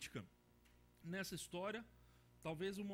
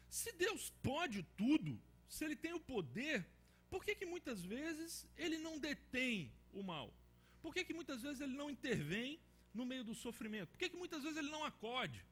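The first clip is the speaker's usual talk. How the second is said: preaching; 5 semitones higher than usual. Acted. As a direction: press each question like a preacher. Preacher pressing the hard questions.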